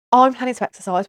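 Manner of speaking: loud, bold declaration; mock proud announcement. Mother declaring to viewers, loud proud announcement. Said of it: "What? Hello? Who said that?".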